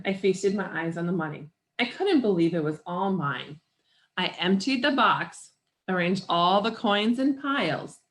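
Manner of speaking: animated picture-book read-aloud; story narration. A narrator's reading. Reader tells children of a boy's bicycle wish, story narration. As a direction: tell the boy's story with lively emphasis.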